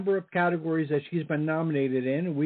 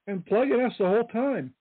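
with hiccups; 4 semitones higher than usual. Real, not acted. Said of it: "Excuse me, I got the hiccups".

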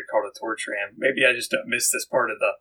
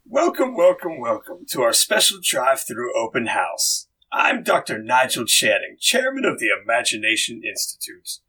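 Nigel Channing. Acted. Chairman welcoming guests to the open house, lightly hammed-up host. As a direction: welcome visitors like a tour host. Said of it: "Jim, as Nigel Channing, would you like to begin".

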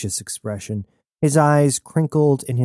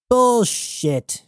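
a much higher shouted scoff; 12 semitones higher than usual. A narrator's reading. Aruda shouting down Tane's story, scornful. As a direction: hurl the word in disbelief. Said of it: "shouted Aruda".

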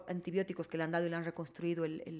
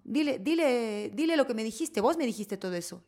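imitating a demanding ex-wife; 4 semitones higher, 4 dB louder than usual.

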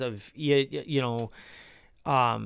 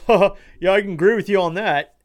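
mock Biden voice, a touch higher and louder, quick; imitating Biden; 4 semitones higher, 6 dB louder, faster than usual. Vlogger mocks Biden agreeing with the caller, a light put-on voice. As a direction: mimic the president agreeing with a chuckle. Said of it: "Biden literally goes".

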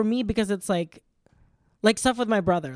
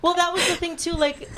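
mock high voice; 12 semitones higher than usual. After the rich joke, mock posh.

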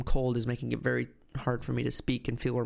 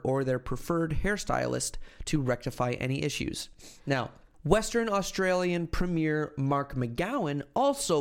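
deliberate presenter reading voice; news article read; 2 semitones higher than usual. Acted. Podcast host reading mullet ban story to co-host, news read. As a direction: read it out like a news report, stretching key names.

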